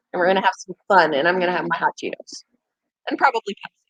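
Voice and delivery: fast whisper; whispered plans. Real, not acted. Streamer telling viewers about tonight's stream in a whisper. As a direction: whisper it like a secret treat.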